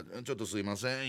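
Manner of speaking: softly apologetic 「ちょっとすいません」 said low and quiet; small voice. Retold or imitated. Squeezing past the boys, quiet small-voiced apology. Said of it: "小さい声でよ".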